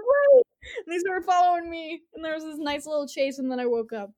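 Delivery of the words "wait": much higher, louder mock yell; shouted call. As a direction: yell it while chasing. Villains chase after her.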